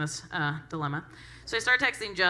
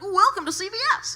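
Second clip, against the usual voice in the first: put-on teen clerk voice; 14 semitones higher, 6 dB louder than usual. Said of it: "but he's like".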